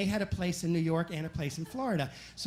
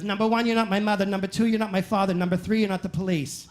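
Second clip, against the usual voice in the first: put-on bratty kid sass; 4 dB louder, faster than usual. Bratty kid sassing friend.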